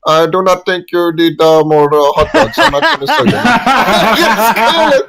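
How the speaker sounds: quoting a clerk while cracking up, slow at the end; laughing while mimicking the hot dog clerk; laughing impression. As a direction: giggle through the clerk's line. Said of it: "this Indian guy just go like".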